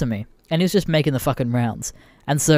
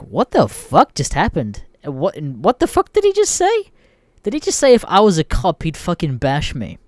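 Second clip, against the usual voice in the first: baffled disbelief; 2 semitones higher than usual. Retold or imitated. Friends baffled after weird threat.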